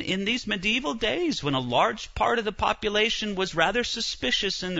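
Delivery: ordinary delivery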